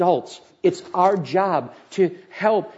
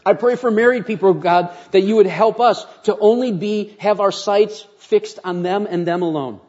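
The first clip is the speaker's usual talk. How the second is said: prayer. Acted. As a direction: pray it out earnestly. Leads closing prayer.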